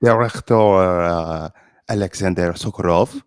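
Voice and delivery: French guest Pierre. Acted. Guest reading the review to the host, in a mock French accent. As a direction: read the magazine blurb as a pompous Frenchman. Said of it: "This is, uh, Pierre".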